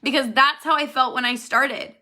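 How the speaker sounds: near tears. Real, not acted. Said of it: "That'll make me cry if I say that word".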